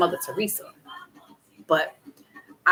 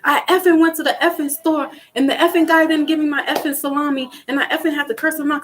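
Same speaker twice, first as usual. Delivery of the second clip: mock dad rant, higher and louder; imitating dad; 6 semitones higher, 4 dB louder, faster than usual. Daughter mimicking her cussing dad's rant, higher and louder. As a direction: ham up a cussing dad's store story. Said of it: "I'm just like".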